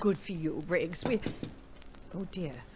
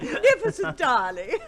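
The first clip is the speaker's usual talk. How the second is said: high giggling praise; laughing; 9 semitones higher, 5 dB louder than usual. Acted. Wife teasing husband's disguise, giggling. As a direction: laugh while praising him.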